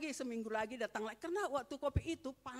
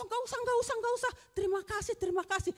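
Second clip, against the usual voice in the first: much higher, sweet polite refusal; 12 semitones higher, 3 dB louder, much faster than usual. Retold or imitated. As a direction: play it as a coy, courteous decline. Retold polite refusal of gift. (menolak dengan sopan, suara tinggi)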